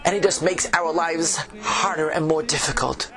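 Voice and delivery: put-on old tavern keeper, Yiddish accent; fretful innkeeper with a Yiddish lilt.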